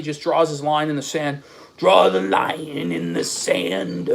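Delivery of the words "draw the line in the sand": mock solemn. Mocks the rival's declaration.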